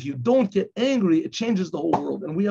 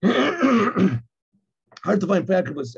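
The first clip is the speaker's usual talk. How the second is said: slow emphasis; much slower than usual. Shown as a demonstration. Repeated slowly for emphasis.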